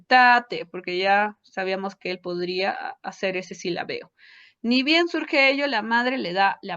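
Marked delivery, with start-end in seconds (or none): 0.1-0.7 put-on louder tate, childlike and clipped to two syllables; child saying tate instead of dame; child's attempt. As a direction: voice the toddler's try. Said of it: "pero dice".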